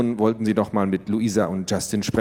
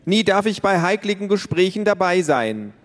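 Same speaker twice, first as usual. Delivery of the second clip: put-on whiny little girl; 10 semitones higher than usual. Child protests.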